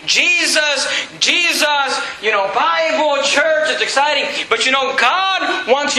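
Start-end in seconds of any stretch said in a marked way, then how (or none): 0.1-4.3 higher, mock-excited churchgoer. Preacher imitating an emotionally attached Christian, excited. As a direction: play a touch of church-rally excitement. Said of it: "It can be exciting".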